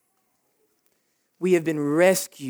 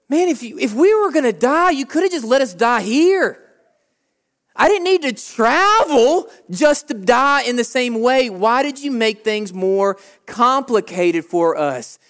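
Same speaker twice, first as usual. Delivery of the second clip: grumbling wanderer; 4 semitones higher than usual. Retold or imitated. Israelites in the wilderness complaining to Moses, raised whine. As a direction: whine that the journey wasn't worth it. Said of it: "the Egyptians say the same thing".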